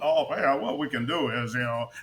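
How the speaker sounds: lightly imitated proper newsman voice; a hint of polished anchor talk; Lester Holt. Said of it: "talk like Lester Holt".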